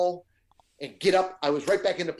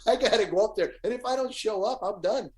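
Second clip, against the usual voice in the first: higher-pitched, urgent mock plea; retold pleading; 4 semitones higher than usual. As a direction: act out begging to be let through. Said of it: "I'm pleading with the guy going".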